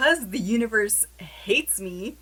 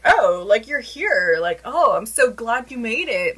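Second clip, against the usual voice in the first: mocking fake surprise; 2 semitones higher, 4 dB louder than usual. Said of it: "now you're acting surprised".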